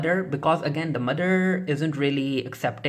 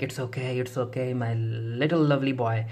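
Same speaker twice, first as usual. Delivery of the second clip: gently soothing. Retold or imitated. Mother to her son who said sorry, gently soothing.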